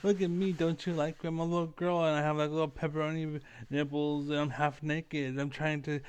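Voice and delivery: a hint of a coy little girl, mocking; hammed-up girlish teasing, only mildly put on. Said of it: "They're like".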